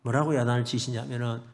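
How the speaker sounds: ordinary talk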